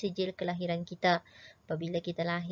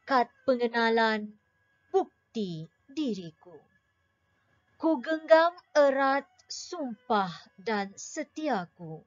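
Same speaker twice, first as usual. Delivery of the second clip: poem recitation; 3 semitones higher than usual. Shown as a demonstration. Teacher declaiming a patriotic poem for pupils, rising and stately. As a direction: declaim the poem proudly to the class. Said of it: "Kemudian deklamasikan mengikut intonasi".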